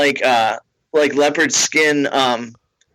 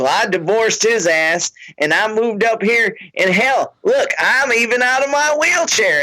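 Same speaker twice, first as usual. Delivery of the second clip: rising higher, proud; proud tipsy fan; 7 semitones higher than usual. Retold or imitated. Fan boasting to the comic, rising higher. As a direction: brag it, climbing up.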